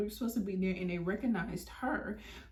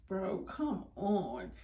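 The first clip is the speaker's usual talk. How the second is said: slow, whispered plea; hushed exasperation under the breath; exasperated whisper; much slower than usual. Retold or imitated. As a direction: whisper it, drawn out, to a friend. Muttering to friend under breath.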